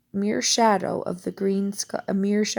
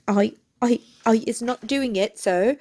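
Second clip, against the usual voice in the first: higher, stammering frightened elf; gasped protest; 3 semitones higher, 4 dB louder than usual. A narrator's reading. Elf denies the charge to Mister Diggory, gasping. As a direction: stammer out a fearful denial. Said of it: "Winky gasped".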